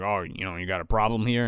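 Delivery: lightly voiced Ray. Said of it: "he's like".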